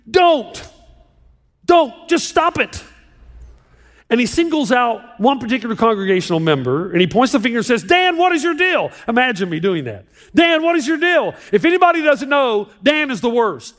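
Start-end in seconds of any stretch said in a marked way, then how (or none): 0.1-2.8 higher-pitched imitation of a screaming pastor; mild mock scream. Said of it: "the pastor screams". 7.8-8.9 higher-pitched, exasperated imitation of a pastor; mock scolding. Acted pastor singles out one member. 10.3-11.3 higher-pitched mock exasperation; mock scolding. Repeats the acted scolding of Dan.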